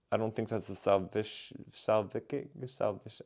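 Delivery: tripping over words with a numb mouth; half-numb mouth slurring the word; numb from the dentist. Real, not acted. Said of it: "I can't speak right now 'cause my mouth is numb".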